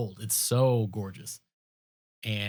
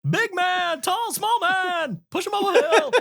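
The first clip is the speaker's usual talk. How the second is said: dopey cartoon bellow; 4 dB louder than usual. Mocking Seuss rhyme.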